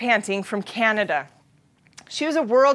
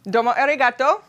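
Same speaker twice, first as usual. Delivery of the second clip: mock Japanese.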